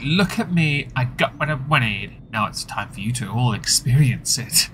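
smug, gloating mock voice; lightly mock her smug gloating; self-righteous. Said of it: "A self-righteous, like".

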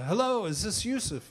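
a hint of a Liverpool star calling; imitating a famous singer's phone greeting. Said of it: "I hear this voice go".

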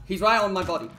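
high loud alarmed callout; urgent shout. Real, not acted. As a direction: yell it to your teammate. Urgent callout while downed.

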